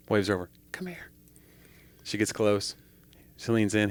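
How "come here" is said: high, hushed parrot voice; parrot beckoning. Acted. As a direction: coax her over softly, pitched high. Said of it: "He goes".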